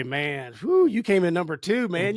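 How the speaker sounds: hammed-up ribbing, rising to a high pitch; mock disbelief. Firefighter teasing an astronaut for coming in second, mock disbelief. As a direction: tease with playful incredulity, pitch leaping at the end.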